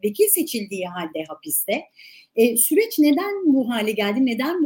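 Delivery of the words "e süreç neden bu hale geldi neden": louder, clearer repeat of the question; louder re-asked. Real, not acted. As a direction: ask it again louder so it gets through. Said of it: "Öyleyse sorumu tekrar sorayım". (soru yüksek sesle tekrar soruluyor)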